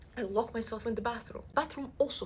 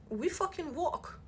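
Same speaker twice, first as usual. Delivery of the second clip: slow, drawn-out and higher; slow dramatic beat; 7 semitones higher, slower than usual. Real, not acted. Comic walking into the open space office, slow and dramatic. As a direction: drag each word out in dread. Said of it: "stunned slow walk into office".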